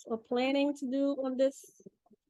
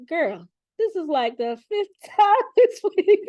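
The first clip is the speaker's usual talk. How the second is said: spirit's voice; 6 semitones higher, 6 dB louder, slower than usual. Retold or imitated. Spirit's voice, high, laughing, far.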